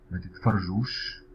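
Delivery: careful slow demo of ما تتفرجوش; ما تتفرجوش said slow for learners; slow model. Shown as a demonstration. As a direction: spell out ما تتفرجوش slowly. Teacher models example slowly.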